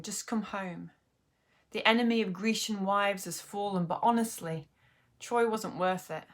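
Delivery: lightly dramatised letter reading with deliberate pauses; understated dramatic monologue, lines set apart by pauses; poem reading in character. Acted. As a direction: read it as Penelope's letter, measured and pointed. Reads the poem aloud.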